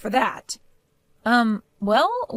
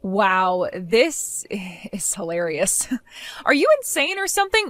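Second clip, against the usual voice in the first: mocking laugh; 3 semitones lower, slower than usual. Mocking the mother-in-law in a quarrel.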